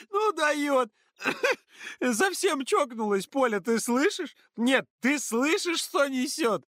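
put-on high, loud jeering girl laughing through words; mocking laughter. A narrator's reading. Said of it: "залилась издевательским смехом". (Ксюша издевательски хохочет)

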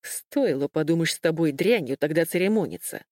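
plain reading voice

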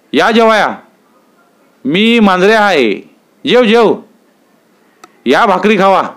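booming jovial invitation to come eat; hearty visitor. Acted. Visitor Manjare calls heartily.

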